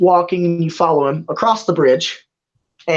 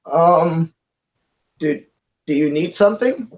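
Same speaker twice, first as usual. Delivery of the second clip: confused, hesitant. Acted. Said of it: "he just kinda looks confused".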